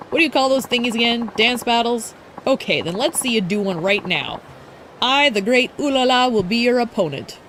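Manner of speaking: lightly voiced haughty challenge; grandiose rival idol. Streamer voicing Ulala challenging Haruka, lightly grandiose. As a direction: declare yourself the great one.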